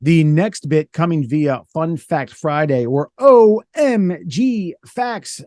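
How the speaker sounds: slow, over-enunciated announcer read; emphatic enunciation. Retold or imitated. Host mock-introducing the fun fact segment, slow and emphatic. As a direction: lean on every word like an intro. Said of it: "as Murr emphatically, uh, enunciates".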